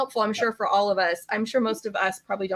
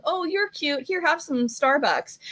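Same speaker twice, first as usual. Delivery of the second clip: much higher, cooing "Oh, you're cute", slow offer; cooing office worker; 5 semitones higher, slower than usual. Retold or imitated. Office workers cooing over a bunny, high sweet voice. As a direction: coo at a bunny like a baby. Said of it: "people are looking at going".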